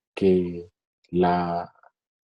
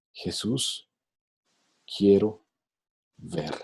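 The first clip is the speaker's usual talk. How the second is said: soft plea; 5 dB quieter, slower than usual. Retold or imitated. Beggar's simple humble answer.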